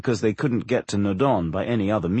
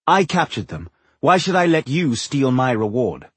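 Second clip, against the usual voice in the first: higher, proud defiance; defiant elf woman; 3 semitones higher than usual. Acted. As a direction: stand your ground proudly. Namora defiant.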